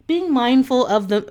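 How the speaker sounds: slipping into a British accent. Real, not acted. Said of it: "I went off on my British accent".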